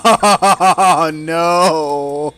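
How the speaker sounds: loud startled cry of dismay; alarmed shout. Real, not acted. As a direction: yell it out in sudden shock. Sudden in-game disaster.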